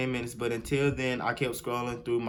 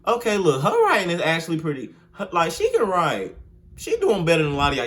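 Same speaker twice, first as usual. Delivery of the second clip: higher and louder, laughing through it; laughing praise; 4 semitones higher, 5 dB louder than usual. Real, not acted. Praising the writer to her viewers, laughing and loud. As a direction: gush about her writing while laughing.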